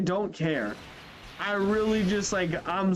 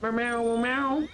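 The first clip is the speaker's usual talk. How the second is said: imitating cat meows; 4 semitones higher, slower than usual. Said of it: "jumped on my lap and went".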